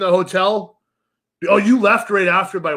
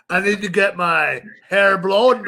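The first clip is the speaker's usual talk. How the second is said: mock French-accented complaint. Imitating a politician wanting the salon, mock French accent. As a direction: put on a hammy French accent. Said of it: "doing a French accent for that".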